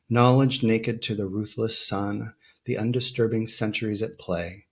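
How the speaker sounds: even, measured verse recital; composed poetry-reading voice; poem reading. Acted. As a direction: recite it deliberately, phrase by phrase. Reads a poem aloud.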